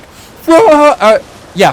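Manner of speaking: high, loud, drawn-out start of a cry; slow-motion mock yell. Fan mocking everyone turning to Frodo, slow-motion yell. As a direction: begin a melodramatic slowed-down shout. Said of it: "in slow motion. Everyone turns and is like".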